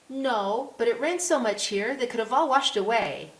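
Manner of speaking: put-on high, loud child's comeback; cheeky little girl. A narrator's reading. Little girl answers the policeman about missing stripes, cheeky high child voice. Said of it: "a small, curly-haired girl".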